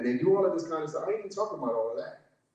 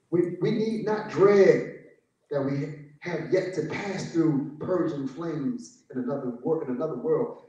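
slow solemn preaching; 3 semitones lower, 3 dB louder, slower than usual. Acted. Slow solemn sermon point.

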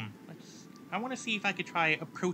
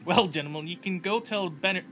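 louder, fierce southern governor voice; fiery governor; 6 dB louder than usual. Acted. Governor Wallace gloating to the senators, louder. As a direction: boom it out like a gloating boss. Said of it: "fiery, fierce cackling".

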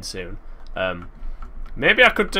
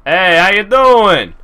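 silly greeting voice; 8 semitones higher, 12 dB louder, slower than usual. Pretend. Greets a slime in a funny voice.

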